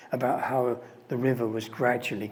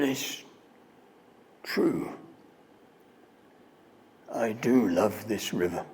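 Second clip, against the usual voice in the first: tearful; 4 semitones lower than usual. Retold or imitated. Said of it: "speaking through his tears".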